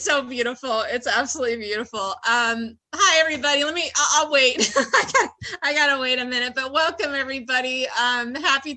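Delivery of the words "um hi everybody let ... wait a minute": choked up. Real, not acted. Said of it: "I'm totally shaking".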